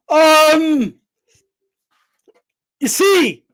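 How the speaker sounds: imitating Floyd. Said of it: "Floyd literally said this".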